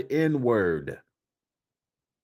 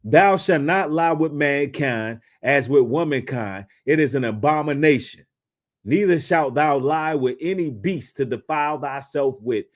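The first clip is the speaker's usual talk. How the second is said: scripture reading. Acted. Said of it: "Leviticus eighteen and twenty-two".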